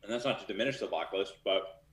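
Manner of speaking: talking while crunching ice; chewing ice. Real, not acted. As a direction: speak around a mouthful of ice. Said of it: "sorry, I'm chewing on ice".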